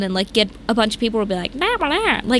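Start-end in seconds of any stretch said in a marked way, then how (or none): 1.5-2.2 high, ridiculous fake Southern babble; mock Southern accent. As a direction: parody a badly done Southern accent. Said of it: "they sounded ridiculous".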